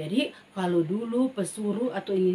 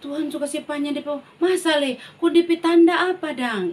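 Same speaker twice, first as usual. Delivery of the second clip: doubting king; 5 semitones higher, 6 dB louder than usual. Acted. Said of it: "dia bilang".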